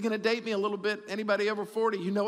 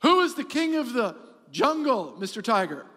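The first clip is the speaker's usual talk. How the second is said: swaggering lion; 3 semitones higher, 4 dB louder than usual. Acted. Lion questions the tiger.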